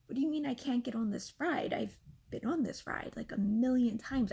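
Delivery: almost laughing disbelief. Retold or imitated. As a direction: protest as if it's laughably absurd. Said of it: "And I, like, almost laugh".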